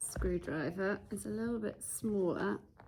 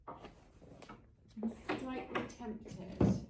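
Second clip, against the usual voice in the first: slow drawn-out whisper; 3 semitones higher, much slower than usual. Real, not acted. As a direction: whisper it slowly to yourself. Muses aloud, then repeats plainly.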